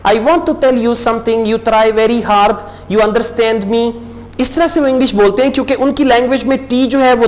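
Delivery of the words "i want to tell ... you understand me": a light, slow mock Spanish accent in English. Teacher jokingly imitates how Spaniards speak English, in a light mock Spanish accent. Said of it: "वो कहते हैं".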